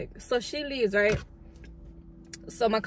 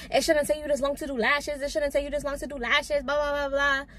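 higher, mocking nag voice; mock yelling; 5 semitones higher than usual. Retelling the boss nagging her about lash speed, higher mock voice. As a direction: imitate her nagging complaint. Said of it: "While she's yelling".

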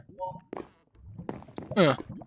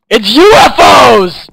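shouting; slower than usual. Real, not acted. Correcting the misread word.

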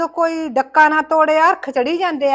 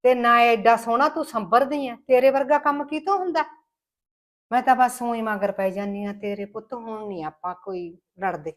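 remorseful apology. Acted. Remorseful mother-in-law apologizes.

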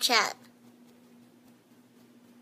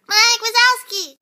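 put-on high, slow toddler shout; Boo impression; 8 semitones higher, 7 dB louder than usual. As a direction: call out like an excited toddler. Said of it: "Boo impression".

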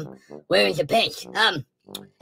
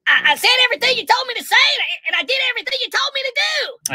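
desperate protest; 12 semitones higher, faster than usual. Acted. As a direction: plead your loyalty. Biden pleading.

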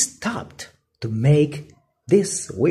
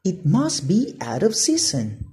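Patty; 5 semitones higher than usual. Acted. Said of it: "said Patty with a sigh".

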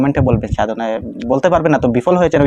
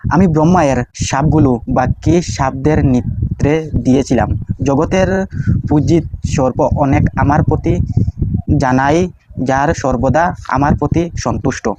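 prayer recitation. Shown as a demonstration.

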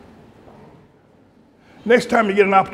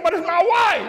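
laughing quote; 10 semitones higher than usual. Retold or imitated. Husband's reply, told laughing.

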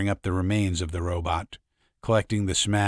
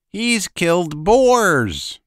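high, slow, stunned shout; a dazed man yelling the news; shocked cry; 10 semitones higher, 7 dB louder, much slower than usual. Acted. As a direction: cry it out in disbelief. Men shocked at robot's death.

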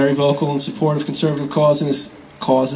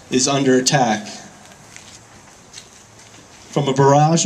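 rally speech. Acted. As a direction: weigh each phrase before the crowd. Formal rally address.

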